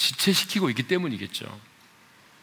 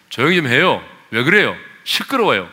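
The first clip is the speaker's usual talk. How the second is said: louder, mock irritated complaint; imagined scolding; 6 dB louder than usual. Preacher acting congregation as bystanders, mock scolding. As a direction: act out telling a noisy man off. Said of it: "아마 꾸짖었을 겁니다".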